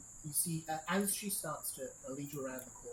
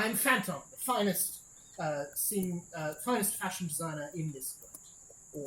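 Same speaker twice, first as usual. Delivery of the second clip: higher, louder grand self-introduction; flamboyant designer; 3 semitones higher, 5 dB louder, slower than usual. Acted. Designer introducing himself to the party, grand and flamboyant. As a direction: announce yourself grandly.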